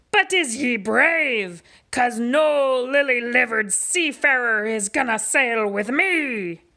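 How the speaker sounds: pirate challenge. Acted. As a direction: dare him to be brave.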